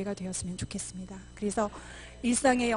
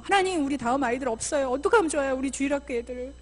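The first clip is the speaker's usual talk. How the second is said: pleading prayer; 3 semitones higher, 6 dB louder than usual. Acted. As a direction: cry out to God for the children. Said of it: "그냥 울어 제끼세요".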